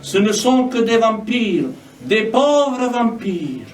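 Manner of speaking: measured lines with falling cadences; spoken poetry reading; poem recitation. Acted. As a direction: recite it as verse, pausing between lines. Reads own poem aloud.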